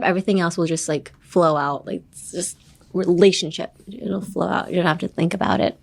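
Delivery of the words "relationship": relationship, RE leaned on hard with the rest flowing; strong RE. Shown as a demonstration. The teacher models relationship for students, the start hit firmly. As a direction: lean on the RE of relationship and let the word roll out. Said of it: "put strength in the relationship".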